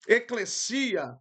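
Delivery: eclesia said slowly, stress on the final syllable; eclesia, deliberate and careful; Greek term. Shown as a demonstration. Teacher introduces the Greek word eclesia to the class. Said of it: "No grego clássico".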